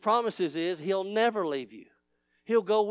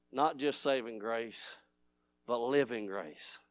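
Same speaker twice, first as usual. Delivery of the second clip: much softer and lower, hushed; 10 semitones lower, 10 dB quieter than usual. Shown as a demonstration. Pastor restating living grace to the congregation, softly. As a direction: drop it to a near hush. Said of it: "theme repeated, dropped low".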